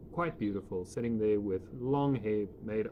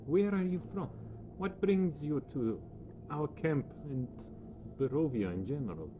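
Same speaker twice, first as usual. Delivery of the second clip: put-on higher, welcoming voice of a young Vistani woman; 5 semitones higher than usual. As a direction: invite the strangers to sit, voiced higher. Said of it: "She asks".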